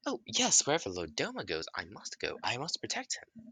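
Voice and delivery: eager servant, jumping high in pitch; devoted creature servant. Acted. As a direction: pledge loyalty with high-pitched peaks.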